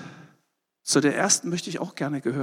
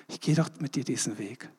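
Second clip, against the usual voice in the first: softer repeat; 3 semitones lower, 6 dB quieter than usual. Retold or imitated. Jesus promising the believer, hushed and tender. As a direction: drop to a soft, hushed repeat.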